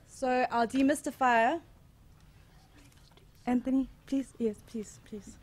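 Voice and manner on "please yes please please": ordinary talk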